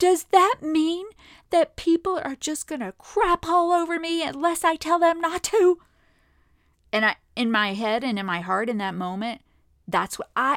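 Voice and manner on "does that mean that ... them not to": mock tearful crying, very high-pitched and raised. Retelling what was said to a husband after a shower: retelling own words while crying. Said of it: "so back to my crying".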